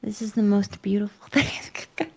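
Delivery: laughing whisper. Real, not acted.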